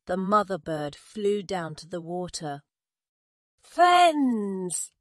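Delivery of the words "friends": high, loud, drawn-out hail; calling out. A narrator's reading. Mother bird to the frogs, high loud call. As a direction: call across the water. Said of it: "she called out".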